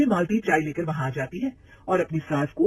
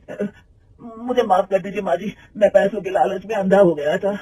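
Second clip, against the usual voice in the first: pleading; 3 semitones higher, 6 dB louder than usual. Acted. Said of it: "गिड़गिड़ाते हुए कहता है".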